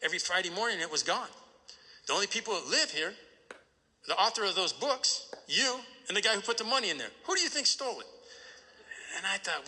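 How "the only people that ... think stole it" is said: grandpa's voice. Retold or imitated. Grandpa explains the theft.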